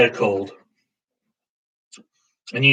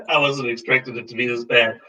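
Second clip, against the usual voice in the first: laughing through the words; shocked laugh at bad taste. Real, not acted. Laughing after foul sip.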